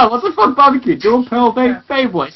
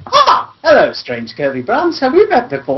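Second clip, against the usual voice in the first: lightly voiced Doctor, with a laugh; 4 semitones higher than usual. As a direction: give the line as the Doctor, half laughing. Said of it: "voice acts as the Doctor".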